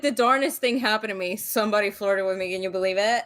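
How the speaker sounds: quick, low folksy mimicry; hammed-up, hurried disbelief; imitating amazed guest. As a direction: play him as an astonished storyteller. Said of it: "he would be like".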